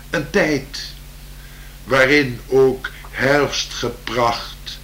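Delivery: slow, lilting poem reading; poem recital. Acted. Improvised poem recital continues.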